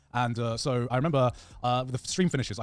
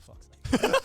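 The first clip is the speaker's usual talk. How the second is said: whispered. Retold or imitated. Waking to see others streaming.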